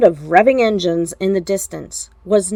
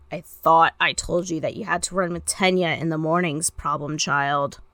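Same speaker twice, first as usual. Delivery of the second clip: dry fond scolding; 3 semitones lower, 6 dB quieter than usual. Acted. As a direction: tease the kid with quiet relief. Shota gently scolds son.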